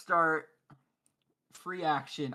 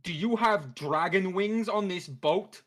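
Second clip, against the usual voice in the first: yelling; 3 semitones higher, 5 dB louder than usual. Acted. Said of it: "I'm gonna yell at the captain".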